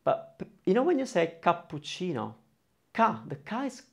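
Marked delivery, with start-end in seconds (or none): 1.4-2.3 "cappuccino" with every vowel sounded; clear Italian pronunciation. Shown as a demonstration. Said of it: "very open and clear". 2.9-3.2 "ka" higher, with an open vowel; open clear A. Shown as a demonstration. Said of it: "very open and clear".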